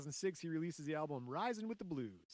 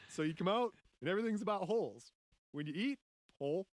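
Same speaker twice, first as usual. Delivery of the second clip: quoting through laughter; 5 semitones higher, 7 dB louder, faster than usual. Retold or imitated. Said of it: "Quote from Ike Turner".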